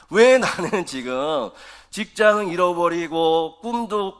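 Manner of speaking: voicing a frustrated believer pleading with God; complaining prayer. Pastor voicing a struggling believer's complaint to God, pleading. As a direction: plead like someone out of work and out of money. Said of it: "이렇게 기도해도 된다라는 거예요".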